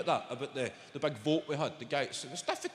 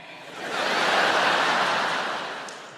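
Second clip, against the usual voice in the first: audience laughter; 7 dB louder than usual. Real, not acted. Audience laughs at card joke.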